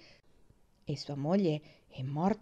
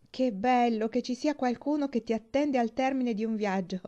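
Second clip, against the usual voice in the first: higher, louder happy exclamation; joyful cry; 5 semitones higher, 5 dB louder than usual. A narrator's reading. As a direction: call out gladly on arrival, a little raised. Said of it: "gridò mentre scendeva dal treno". (esclamazione gioiosa a voce alta)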